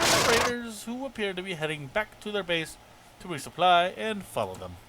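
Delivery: lightly voiced officer giving a briefing; formal quest-giver delivery; game commander reading. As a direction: read the orders out lightly in character. Reads game officer's quest dialogue.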